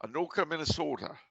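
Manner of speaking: playful Minnesotan accent on request. Shown as a demonstration. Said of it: "You gotta say that in a Minnesotan accent".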